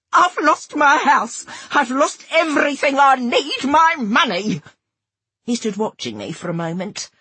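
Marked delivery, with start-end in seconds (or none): 0.1-4.6 high, loud, slow wail; desperate tearful shouting. A narrator's reading. Narrator begging for her money, shouting and crying. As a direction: spell each word out as if the world is ending. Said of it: "spelling each word out as if it was the end of the world".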